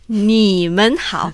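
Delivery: "Ni men hao" drawn out slowly and loudly, each tone exaggerated; careful tone demo. Shown as a demonstration. Teacher correcting a student's tones, slow, emphatic "Ni men hao". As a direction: stretch "Ni men hao" to show the dipping third tone on "Ni". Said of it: "tener cuidado con el tono".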